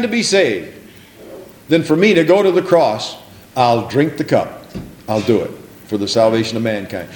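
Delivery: mild imitated prayer of surrender; earnest prayer. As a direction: pray it sincerely, resolved. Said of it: "One final prayer".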